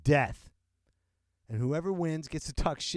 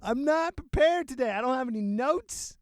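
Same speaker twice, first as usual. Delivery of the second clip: much higher and louder, "prepared" punched hard; loud declaration; 11 semitones higher, 5 dB louder than usual. Real, not acted. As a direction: announce it boldly to everyone. Repeats loudly after laughing.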